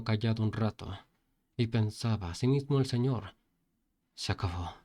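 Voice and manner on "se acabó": fearful despair. Acted. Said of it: "lo miraba todo con miedo".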